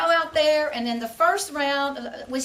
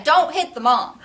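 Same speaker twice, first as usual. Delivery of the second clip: laughing mock threat; 2 semitones higher, 6 dB louder than usual. Joking threat at the net.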